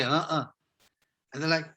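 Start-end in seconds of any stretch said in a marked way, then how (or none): 0.0-0.5 two-part "Uh-uh", the first part up and the second down, meaning no; a clipped "Uh-uh" of disagreement. Shown as a demonstration. To kids, showing the South African "Uh-uh" for no. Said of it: "you say".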